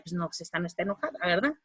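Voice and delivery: lightly voiced onlooker; listener's retort. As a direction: mutter the listener's verdict. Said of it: "obviamente decía".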